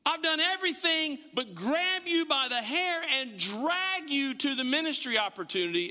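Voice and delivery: fed up. Acted. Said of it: "that he's fed up with you".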